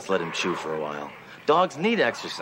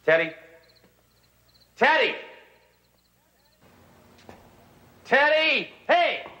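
loud, high call across the house; shouting a name into empty rooms; 4 dB louder, slower than usual. Acted. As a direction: yell his name to find him. Calling out for missing Teddy.

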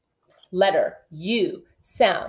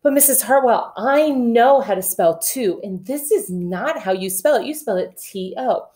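put-on child's objection; 4 semitones higher than usual. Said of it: "you might say".

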